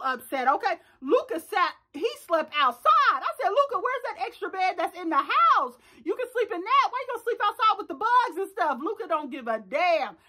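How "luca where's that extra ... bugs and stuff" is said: higher-pitched mock questioning; incredulous scolding. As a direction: question him like he's being ridiculous. Acts out scolding Luca about sleeping outside.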